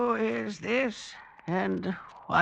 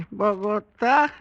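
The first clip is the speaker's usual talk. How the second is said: amused scoff. Acted. Elder mocks strange word.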